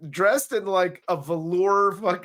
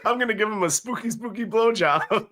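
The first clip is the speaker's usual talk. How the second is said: fast, higher mock Transylvanian voice; mock Transylvanian accent; 5 semitones higher than usual. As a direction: ham up the spooky ghost. Mocking the ghost's accent.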